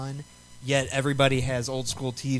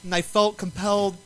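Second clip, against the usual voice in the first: Jax Teller voice; 7 semitones higher, 4 dB louder than usual. Retold or imitated. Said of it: "a Jax Teller impersonation".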